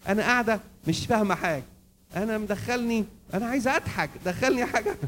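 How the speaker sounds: high-pitched mock grumble; complaining wife. Wife wants a laugh at the play, complaining. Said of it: "تقول له".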